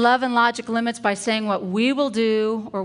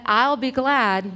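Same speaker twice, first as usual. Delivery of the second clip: "glad" drawn out and louder; stress on glad; 3 semitones higher, 5 dB louder, slower than usual. Shown as a demonstration. Parent telling a child what they'll do, stress on "glad". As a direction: stretch out "glad" for emphasis. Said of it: "You're telling what you'll do".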